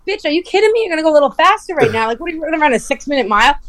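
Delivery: high, fast, disbelieving retort; can't believe what she's hearing; incredulous. Retold or imitated. Answering the speeding friend, in high, fast disbelief. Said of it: "I'm like".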